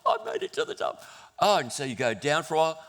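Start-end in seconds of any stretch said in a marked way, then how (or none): 0.0-1.0 high, bursting with relief; triumphant. Retold or imitated. Rob reaching the hilltop, triumphant. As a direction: announce your victory.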